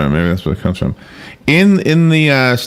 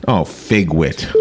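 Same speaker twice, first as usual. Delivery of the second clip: slow mock curse; 6 semitones lower, 4 dB quieter, much slower than usual. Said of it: "they say figwit".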